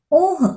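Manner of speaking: a high, yelped oh of pain; pained cry. A narrator's reading. Stung master yelps in pain at the bee, high mock cry. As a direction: yelp it high as if just stung. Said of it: "पीड़ा से युक्त वो बहुत जोर से चिल्लाता है".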